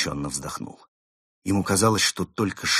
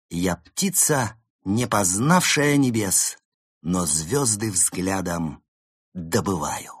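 poem recitation; 4 dB louder, slower than usual. Acted. Poem in diary.

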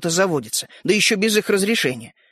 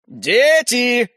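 drawn-out call from another room; father's higher-pitched summons; 4 semitones higher, 4 dB louder than usual. A narrator's reading. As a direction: call the kids in, voice raised. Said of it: "крикнул из кухни папа".

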